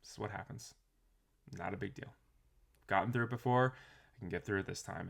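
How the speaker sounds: calm shrug. Retold or imitated. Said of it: "the reaction ... far less".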